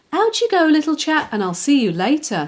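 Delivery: bright, lifted send-off to the puppy; happy. A narrator's reading. Jenny sends her puppy out to play, happily. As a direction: cheerfully shoo the puppy outside. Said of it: "said Jenny happily".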